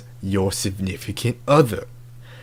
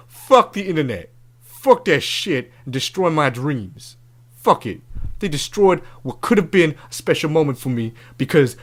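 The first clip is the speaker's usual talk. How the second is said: worked-up rant, pitched up; exasperated, high-pitched griping; pissed off; 4 semitones higher than usual. Real, not acted. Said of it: "I'm so fucking pissed".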